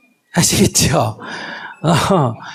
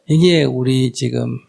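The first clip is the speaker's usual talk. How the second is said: normal talking voice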